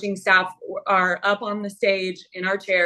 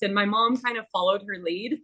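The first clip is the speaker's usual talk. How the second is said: ordinary talk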